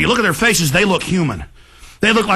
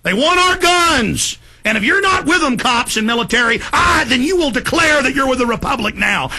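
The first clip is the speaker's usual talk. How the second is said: escalating rant; 2 semitones higher than usual. Real, not acted. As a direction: build from firm to yelling. Rant building into shouting.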